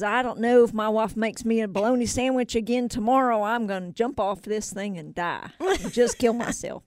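lightly voiced fed-up worker; a hint of mock exasperation; joke character. Worker threatening to jump over lunch, mildly hammed-up.

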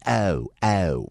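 "oh" fronted to "eh-oh"; South Jersey vowel. Shown as a demonstration. Host showing the Philadelphia sound, almost-English "oh". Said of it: "almost an English kind of accent".

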